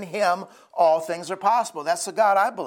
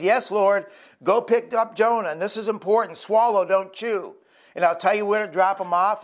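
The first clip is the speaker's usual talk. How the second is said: lightly higher, playful voice of God giving orders; a hint of a bossy king instructing his servant; silly God voice; 3 semitones higher than usual. Preacher voicing God telling the fish what to do, playful. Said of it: "making a little bit silly here".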